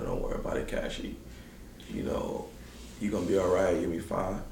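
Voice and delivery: soft, low voice of someone consoling; retold reassurance. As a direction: gently imitate comforting words, quietly. Coach's wife consoles him in story.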